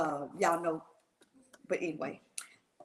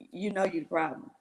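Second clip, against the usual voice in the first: low, matter-of-fact quoted verdict; plain-spoken; 6 semitones lower than usual. Retold or imitated. Uncle telling her she is the problem, plain-spoken. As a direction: state the blame plainly, voice dropped. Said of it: "He said it just plain like that".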